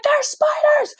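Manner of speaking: breathless high whisper of panic; scared whisper to the roommate about the spiders; frightened whisper. Retold or imitated. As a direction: whisper it as if the spiders can hear you.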